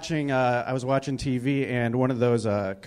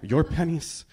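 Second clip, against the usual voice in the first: mock Spanish-accented spokesman. Commercial guy answering the viewer back, mock Spanish accent. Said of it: "had a Spanish accent".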